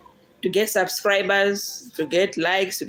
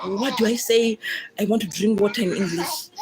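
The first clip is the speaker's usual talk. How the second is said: laughing while asking; 3 semitones higher than usual. Retold or imitated. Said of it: "I will ask my friend, my sisters and brothers".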